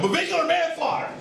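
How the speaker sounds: high-pitched, exasperated mock yell; retold yell. Agitated dad yelling at his daughter, high mock yell. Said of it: "I yelled at her".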